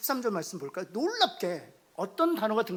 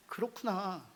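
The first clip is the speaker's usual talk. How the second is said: quiet gentle "그렇구나"; soft empathy; 7 dB quieter, slower than usual. Shown as a demonstration. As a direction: nod it softly. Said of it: "왜라고 묻지 않는 것입니다". (조용히 다정하게 "그렇구나")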